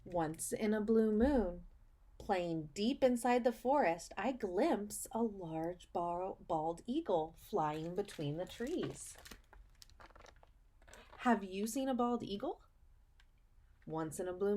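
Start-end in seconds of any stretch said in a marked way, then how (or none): 0.1-9.2 slow, sing-song picture book read; reading to children. Acted. Teacher reading a picture book to her students, storybook voice. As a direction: read it like storytime for little kids.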